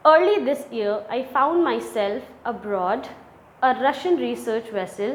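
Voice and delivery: slow, deliberate reading of the text; slow reading aloud. Shown as a demonstration. Teacher reading the English passage to students, slow and deliberate. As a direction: read each phrase slowly for the class.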